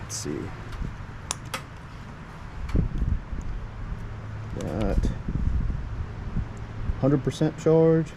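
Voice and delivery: talking inside a helmet; muffled helmet voice; muffled through helmet. Real, not acted. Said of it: "I'm talking through the helmet".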